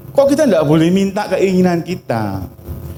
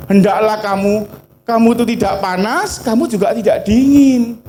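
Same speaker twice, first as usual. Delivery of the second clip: voice of God; 6 semitones higher than usual. Acted. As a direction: thunder it down as God scolding a lukewarm church. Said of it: "Tuhan bilang apa?".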